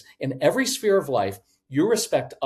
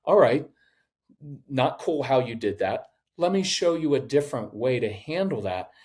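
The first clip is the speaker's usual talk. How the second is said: matter of fact tone. Shown as a demonstration. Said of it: "the even matter of fact tone".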